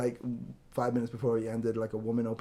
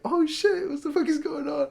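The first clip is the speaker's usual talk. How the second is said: high-pitched, loud mock alarm; acted shock; 6 dB louder than usual. Patient overhears mother and daughter fighting, comically shocked. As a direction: play up a stunned eavesdropper's reaction. Acting out own shocked reaction.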